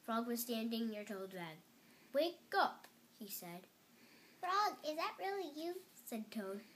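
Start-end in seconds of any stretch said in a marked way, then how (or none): 2.1-2.9 waking call. A narrator's reading. Frog wakes dreaming Toad. 4.4-5.8 high, hopeful question; surprised question. A narrator's reading. Toad waking to find Frog, high-pitched surprise.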